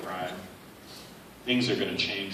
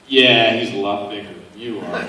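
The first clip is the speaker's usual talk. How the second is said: laughing; 8 dB louder than usual. Retold or imitated. Retold chairlift guy joking.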